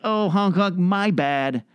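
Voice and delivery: high, light apologetic driver. Retold or imitated. Comic imitating a driver mouthing sorry while honking. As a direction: toss off a quick sorry. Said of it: "you're like".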